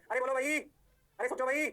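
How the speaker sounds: loud rising call to the class. Real, not acted. Teacher calling out to the class, loud rising call. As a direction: rouse the students, rising on भाई.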